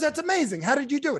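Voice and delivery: high mock amazement; amazed customer. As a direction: gush like a stunned fan.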